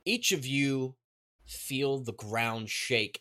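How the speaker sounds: normal talking voice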